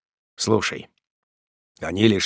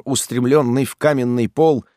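ordinary talk

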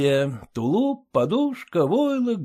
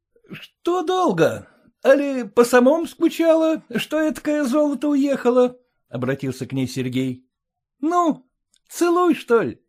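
raised, teasing swagger; cocky farmhand; 10 semitones higher than usual. A narrator's reading. Sergei teases the master's wife, cocky. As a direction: tease her like a boastful suitor.

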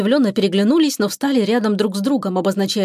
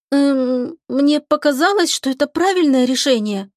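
put-on a higher, shy girl's voice; embarrassed young girl; 5 semitones higher, slower than usual. Lika mumbles her excuse to the captain, higher shy voice. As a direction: shuffle your feet verbally, shy.

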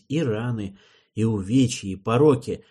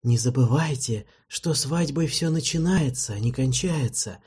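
serene. Acted. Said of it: "сказал некромант безмятежно".

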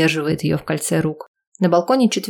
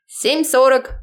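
call out; 8 semitones higher, slower than usual. Acted. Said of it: "выкрикивает Ростик".

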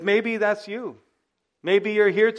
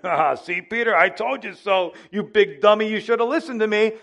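mock told-you-so, a little higher; smug teasing; 4 semitones higher, 3 dB louder than usual. Preacher imagining Jesus gloating at Peter, mock smug. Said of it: "a smug look of Jesus saying".

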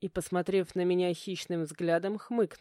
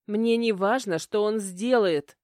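indignant outburst; 3 semitones higher, 6 dB louder than usual. A narrator's reading. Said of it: "выпалила возмущённо".

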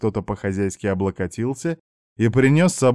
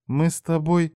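tentative reply; 7 semitones higher than usual. Acted. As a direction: offer it tentatively, voice lifted. Hesitant girl completing her thought.

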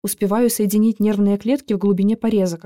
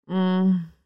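weak moan; 3 dB quieter than usual. A narrator's reading. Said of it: "только и может ответить он".

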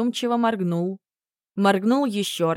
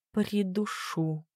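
угрожающий шёпот; 7 dB quieter, much slower than usual. Acted. Героиня угрожает дракону.

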